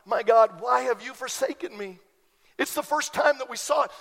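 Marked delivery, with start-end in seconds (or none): 0.0-2.0 crying out. Retold or imitated. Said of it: "he cried out".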